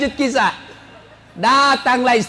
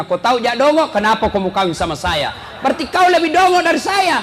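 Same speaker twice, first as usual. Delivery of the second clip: husband's retort; 4 semitones higher, 3 dB louder than usual. Retold or imitated. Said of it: "bilang suaminya".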